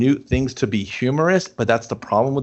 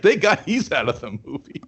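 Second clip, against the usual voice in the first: said through a laugh; can't hold the laugh in. Pretend. Nerds relieved the frat guy left, laughing.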